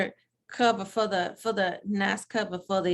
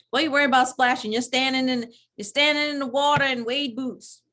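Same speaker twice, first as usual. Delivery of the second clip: indignant; 5 semitones higher, 4 dB louder than usual. Real, not acted. Indignant retort at the pastor.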